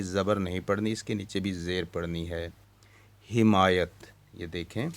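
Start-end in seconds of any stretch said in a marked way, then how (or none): 3.3-4.1 हिमायत said with a short i: hi-ma-yat, not ha-ma-yat; correct pronunciation. Shown as a demonstration. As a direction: say हिमायत with a zer under हे. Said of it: "ये हमायत नहीं". (हिमायत को हि-मायत पढ़ें)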